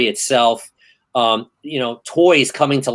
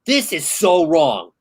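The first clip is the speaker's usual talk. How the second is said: much higher, speeding up in alarm; retold panic; 8 semitones higher than usual. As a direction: replay the theater freak-out, rushing. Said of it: "thinking to myself".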